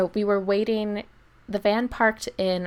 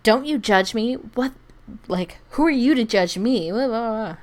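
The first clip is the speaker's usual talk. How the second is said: mock angry shout; 4 semitones higher, 4 dB louder than usual. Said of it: "starts shouting at her".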